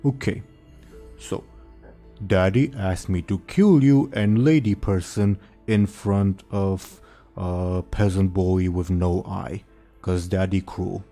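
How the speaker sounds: slow, dim-witted ogre bellow; dopey cartoon bellow. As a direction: boom it out like a simple ogre. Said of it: "the ogre says".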